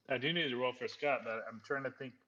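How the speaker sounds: talking through a mouthful; words round a bite of food; mouth full. Real, not acted. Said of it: "with my mouth full".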